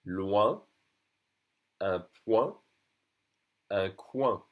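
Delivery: "Loin", "point", "coin" ending in nasal wa; French OIN sound. Shown as a demonstration. Teacher drilling O I N words, each with a nasal ending. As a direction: separate model words, "oin" nasal with no hard N. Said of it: "O I N together is the sound ouin".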